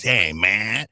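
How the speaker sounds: hint of a low pleading voice; low caller voice. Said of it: "he got that voice".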